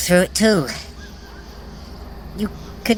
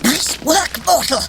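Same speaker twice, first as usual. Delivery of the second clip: triumphant cheer; 8 semitones higher than usual. Acted. God hailing the mortal who broke the circle, triumphant shout. Praising the runner's success.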